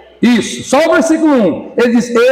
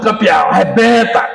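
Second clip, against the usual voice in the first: hammed-up cheer. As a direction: ham up the wife's rallying cry. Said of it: "Ela fala assim".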